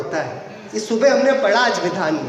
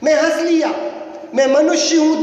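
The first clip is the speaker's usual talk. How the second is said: soul's proud claims; 5 semitones higher, faster than usual. Retold or imitated. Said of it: "ये आत्मा अपना परिचय भूलकर बोलता है".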